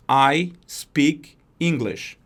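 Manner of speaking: slow, careful English for learners; slow model sentence. Shown as a demonstration. Teacher modelling English slowly for students. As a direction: spell it out word by word. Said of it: "Quando ela vai dizer isso em inglês".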